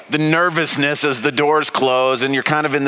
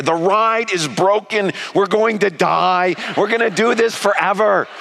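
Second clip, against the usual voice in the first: mock great fear; 4 semitones higher than usual. Dad sure the ride is broken, mock terror. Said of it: "great fear".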